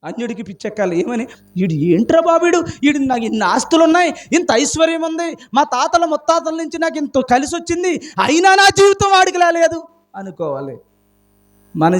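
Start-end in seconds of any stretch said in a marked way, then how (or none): 1.6-9.8 envious grumble. Retold or imitated. Envious neighbour's imagined thought.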